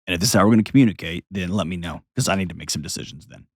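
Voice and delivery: calm firm boundary. Retold or imitated. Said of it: "close the door and say".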